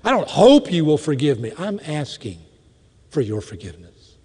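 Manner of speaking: sincere request, falling to a hush; earnest asking. Shown as a demonstration.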